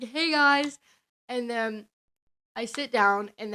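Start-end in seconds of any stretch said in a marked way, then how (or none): 0.0-0.8 high, loud hello to the group; acted-out eager hi; cheery greeting. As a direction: greet new friends brightly, pitched up.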